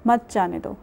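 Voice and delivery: "مت جانے دو" follows the pause, falling; second half after the pause; pause after روکو. Shown as a demonstration. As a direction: end on "مت جانے دو" after the break. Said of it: "دوبارہ کوٹ کرتی ہوں".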